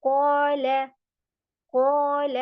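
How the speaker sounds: कोल said full and round, never like काला; heavy qaf. Shown as a demonstration. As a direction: make the q heavy, not a light k. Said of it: "अब मैं इसे काला नहीं कर सकती".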